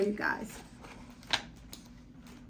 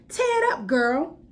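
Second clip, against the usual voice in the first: 1 crowd yell; 3 semitones higher, 4 dB louder than usual. Acted. Crowd member yells.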